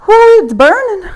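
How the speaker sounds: loud, high whoop of effort; excited cry. Real, not acted. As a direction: shout through the burn. Coach feeling the burn mid-set.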